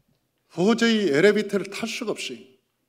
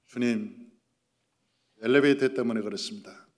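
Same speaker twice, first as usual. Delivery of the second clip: smiling; 7 semitones lower, 3 dB quieter than usual. Retold or imitated. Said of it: "웃으면서".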